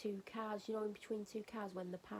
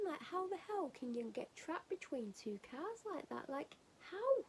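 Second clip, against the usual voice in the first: incredulous disbelief; 7 semitones higher, slower than usual. Real, not acted. Incredulous about man stuck between cars.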